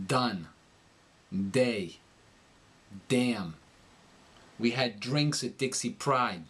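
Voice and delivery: New York dentalized D in "Done", "Day", "Damn", "Dixie"; New York accent, tongue leaning on the teeth for each D. Shown as a demonstration. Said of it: "it kinda leans against the teeth".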